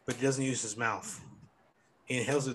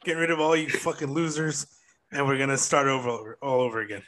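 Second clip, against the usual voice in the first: announcing big news; 5 dB louder than usual. Pretend. Fake shutdown announcement to listeners.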